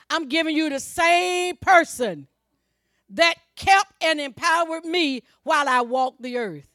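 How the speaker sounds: forceful pulpit declamation, leaning on key words; emphatic preaching. Acted. Preacher voicing Jesus to the congregation, emphatic preaching. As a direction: proclaim it as a promise.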